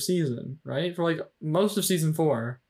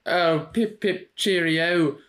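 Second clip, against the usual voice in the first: put-on posh British accent; 2 semitones higher, slower than usual. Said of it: "those accents".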